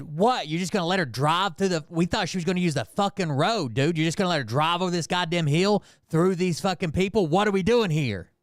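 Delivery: retold indignant challenge to a cop; agitated. Agitated bystander confronting a cop over a driver, indignant. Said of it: "I'm already super agitated".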